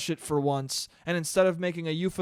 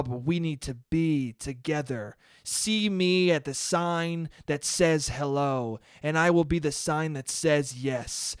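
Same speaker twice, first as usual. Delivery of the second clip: mock poet reading; 3 semitones lower than usual. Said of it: "their poems are all just like".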